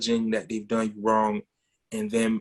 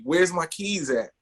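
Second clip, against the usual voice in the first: higher, slow, exasperated demand; retold exasperation; 4 semitones higher, slower than usual. Dad pressing his son before a movie, exasperated. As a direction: imitate a dad getting mad, drawing the words out. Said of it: "I'm getting mad 'cause time is going by".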